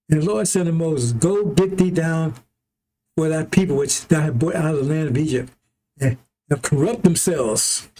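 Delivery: measured reading, lingering on key words; slow, careful reading. Real, not acted. Preacher reading scripture to brothers and sisters, slowly and carefully. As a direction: read scripture out with drawn-out words. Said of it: "hopefully slowly, carefully".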